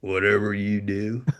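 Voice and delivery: low, soft and deliberate; hushed, unhurried deadpan; imitated calm warning. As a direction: warn quietly, lowering the voice. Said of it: "Craig calmly looks at me and says".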